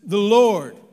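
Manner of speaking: slow, loud, lightly voiced divine voice; voice from heaven. God answering the falling man from heaven, slow and grand. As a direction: speak down slowly as God. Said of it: "a voice from heaven".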